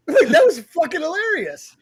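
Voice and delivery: high-pitched, laughing through the words; real laughter breaking into speech. Real, not acted. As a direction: crack up while talking. Cracking up at bear story.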